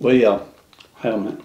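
talking with a mouthful; words round a bite of food; mouth full. Real, not acted. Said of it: "Don't wanna be talking with my mouth full".

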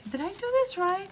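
high, stunned, real disbelief; can't believe the total; amazed disbelief. Real, not acted. Shocked at her savings total.

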